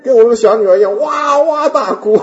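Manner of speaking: laughing. Real, not acted. Laughing describing wailing.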